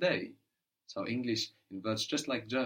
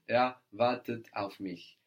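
slow model sentence. Shown as a demonstration. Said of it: "Very good".

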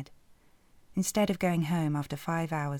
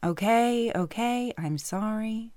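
higher, quick apologetic man; backing off; 6 semitones higher, 4 dB louder, slower than usual. Acted. Coach hastily apologising to the offended heroine. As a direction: raise your hands and back down.

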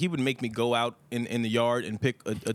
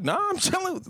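fake casual. Kid acting innocent.

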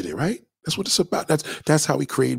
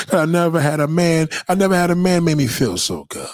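gushing; 4 semitones higher than usual. Acted. Gushing to girlfriend.

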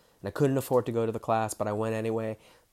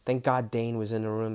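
ordinary talk

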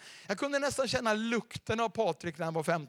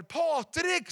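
glad recognition; 9 semitones higher than usual. Retold or imitated. Recognizing an old friend.

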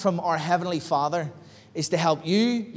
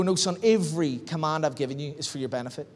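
softer and lower, a calm fatherly rebuke; hushed, tender, softer correction; gentle correcting voice; 4 semitones lower, 5 dB quieter than usual. Retold or imitated. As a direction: speak it quietly, like God setting you straight. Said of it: "the Holy Spirit convict me and go".

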